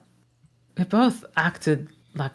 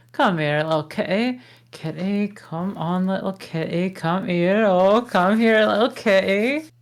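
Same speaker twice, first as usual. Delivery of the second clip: cooing to a kitty; 2 semitones higher than usual. Acted. Shrek calls the little cat over, sweetly coaxing. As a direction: coax the cat over like a pet.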